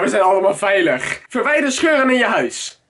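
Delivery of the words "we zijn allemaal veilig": lower, calmer we zijn allemaal veilig; calm reassurance. Pretend. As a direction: soothe yourself down. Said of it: "Rustig maar".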